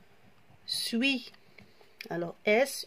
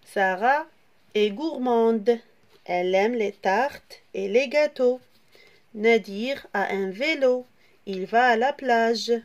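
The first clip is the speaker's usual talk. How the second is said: reading the example; 4 dB louder than usual. Shown as a demonstration. Teacher reading example sentences for pupils to follow, clear and loud. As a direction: read each sentence out clearly to the class. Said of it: "je vais lire l'exemple".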